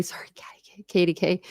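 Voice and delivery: quick whispered self-correction. Real, not acted. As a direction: fix the name under your breath.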